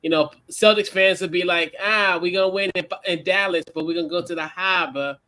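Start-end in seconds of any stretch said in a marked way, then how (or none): 1.8-5.2 lightly imitated Boston accent; hint of a Boston sports fan's accent. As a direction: play a Celtics fan with a Boston accent. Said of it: "that Boston accent".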